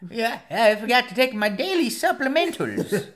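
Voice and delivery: high and loud through laughter; laughing. Real, not acted. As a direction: laugh while you say it. Laughing old age joke.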